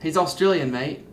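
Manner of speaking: lightly imitated Australian accent. Host explains the actor's accent, mock Australian accent. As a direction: put on a hint of Australian, dropping on the last word. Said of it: "use an Australian accent".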